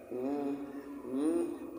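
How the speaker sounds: soft closed-mouth "mm"; muffled mumble. Retold or imitated. Lázaro wrapped in burial cloths, muffled humming. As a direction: imitate trying to talk with mouth bound. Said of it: "tenía tapada la nariz de la boca".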